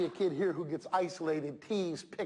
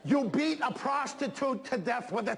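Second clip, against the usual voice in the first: mock outrage; 7 semitones higher, slower than usual. Mocking violent video game content.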